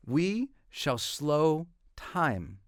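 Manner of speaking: slow, soft, drawn-out declaration. Acted. Declaring the slowing of time, slow and soft. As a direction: let each word stretch as if time slows.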